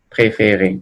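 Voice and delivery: "préféré" with every E a closed ay sound; closed final É. Shown as a demonstration. Teacher reading the French example to students, closed É. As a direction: say "préféré" with three closed E's, last one sounded. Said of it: "cambiar la pronunciación".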